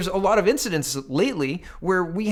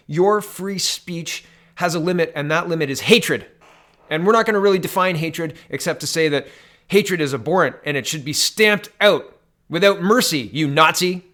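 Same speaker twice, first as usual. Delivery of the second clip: sarcastic, rising to louder scorn; mock politician; 4 dB louder than usual. Vlogger mocking politicians' speech limits, sarcastic and louder. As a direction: parody their preachy line, then sneer.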